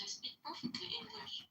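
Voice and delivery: half-whispered protest. Real, not acted. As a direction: mutter it under your breath, indignant. Mock-offended claim about his English.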